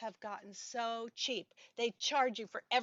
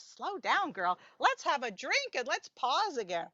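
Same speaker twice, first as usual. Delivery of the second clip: audience heckle; 4 semitones higher, 5 dB louder than usual. Retold or imitated. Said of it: "some people are going like this".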